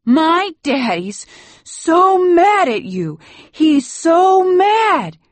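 very high, loud wail; sobbing child. A narrator's reading. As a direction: wail it out like a hysterical small boy. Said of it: "He starts to sob and shake".

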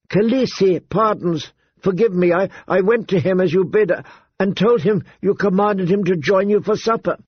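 high, halting, scared apology; frightened pleading. A narrator's reading. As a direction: stammer it out in fear. Frightened handmaid begs forgiveness.

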